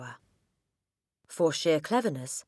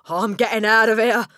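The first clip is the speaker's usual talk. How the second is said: higher, loud burst of fright; panicked; 7 semitones higher, 12 dB louder than usual. Acted. Father fleeing the haunted room, panicked shout. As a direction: blurt it out, desperate to escape.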